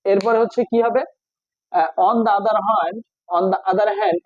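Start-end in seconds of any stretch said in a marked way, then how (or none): 2.1-3.0 on the other hand, each word drawn out slowly; slow dictation. Shown as a demonstration. Teacher dictating to students, slow and deliberate. 3.4-4.2 on the other hand, thrown up high in the voice; high repeat. Shown as a demonstration. Teacher repeating the phrase to students, pitched high.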